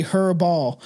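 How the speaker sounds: "Herbal" with a sounded H, HER-ball; spelling pronunciation. Shown as a demonstration. Reader proving the title's spelling, literal HER-ball. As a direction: give "Herbal" both full syllables, as spelt.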